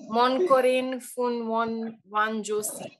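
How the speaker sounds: slow, accidental Japanese-like accent; Japanese-sounding reading. Real, not acted. Puzzling out foreign lyrics, unintended Japanese-sounding accent. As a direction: read unknown words slowly, as if Japanese. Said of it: "I make it sound like Japanese".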